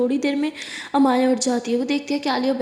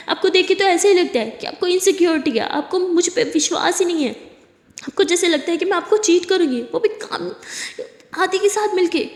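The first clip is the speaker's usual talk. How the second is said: accusing complaint; 4 semitones higher than usual. Acted. Accusing partner of insecurity.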